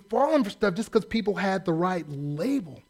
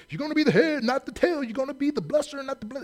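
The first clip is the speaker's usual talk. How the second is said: mock sing-song prophecy; 6 semitones higher than usual. Parodying stock prophecies.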